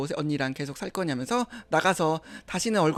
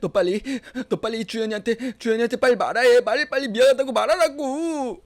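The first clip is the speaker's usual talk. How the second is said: angry demand; 6 semitones higher, 6 dB louder than usual. Acted. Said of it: "화를 냈어요".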